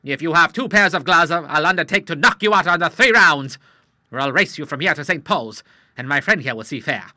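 put-on an old sailor spoiling for a fight; old Admiral challenging the moneylender to box, hotly. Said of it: "said the Admiral hotly".

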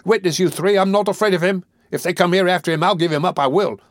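put-on high-pitched, agitated boy's outcry; increasingly excited cries. A narrator's reading. Boy denouncing the murderer to three men, excited cries. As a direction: work yourself up, crying out high. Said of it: "becoming more and more excited as he spoke".

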